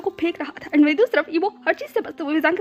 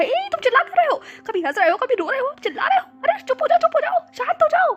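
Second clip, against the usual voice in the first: high, louder urgent calming; alarmed hush; 10 semitones higher, 3 dB louder than usual. A narrator's reading. Man frantically hushing a screaming partner, high and loud. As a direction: shush him, alarmed and urgent. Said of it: "alert mode पर आ गया".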